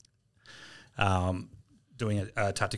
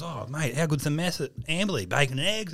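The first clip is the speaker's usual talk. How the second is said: slightly higher, eager gushing; mock enthusiastic boasting; 4 semitones higher than usual. Keen Navy guy raving about the mess breakfast, mock enthusiastic boasting. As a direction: gush like a keen recruit. He's crapping on it.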